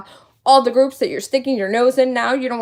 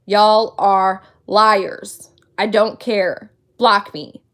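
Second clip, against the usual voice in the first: defiant retort; 4 semitones lower, much slower than usual. Retold or imitated. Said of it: "but I said".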